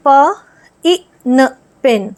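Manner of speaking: प, ई, न said separately, then joined as पेन; sounding out pen. Shown as a demonstration. Teacher shows children how to blend letters into a word. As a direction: sound each letter, then put them together. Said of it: "जैसे".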